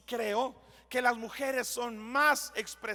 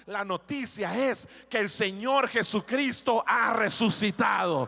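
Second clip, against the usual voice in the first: louder, ringing climax; preaching at full force; 5 dB louder than usual. Acted. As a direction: proclaim the good news to the congregation. (proclamación fuerte y jubilosa del predicador)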